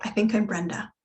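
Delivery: normal talking voice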